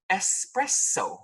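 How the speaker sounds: espresso whispered slowly; correct espresso. Shown as a demonstration. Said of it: "everybody calls an egg special".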